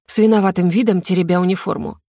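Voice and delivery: plain reading voice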